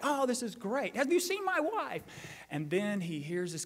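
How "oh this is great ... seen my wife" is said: giddy cry. Retold or imitated. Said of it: "he's like".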